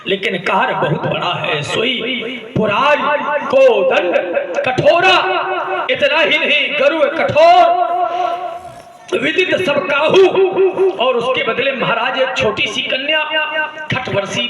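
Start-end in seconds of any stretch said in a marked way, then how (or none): 3.5-10.2 declaiming. Acted. Janak declaims the bow's might.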